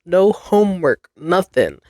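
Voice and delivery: high, fast, delighted recalled cheer; student reliving joy at extended spring break, excited. Retold or imitated. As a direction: gush about the extra week off. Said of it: "I was so excited".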